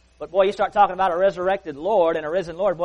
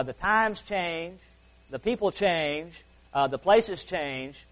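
slow emphatic list; much slower than usual. Acted.

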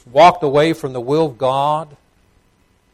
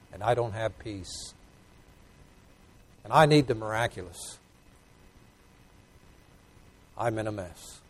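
humble confessional prayer; 4 dB quieter than usual. Acted. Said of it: "He said".

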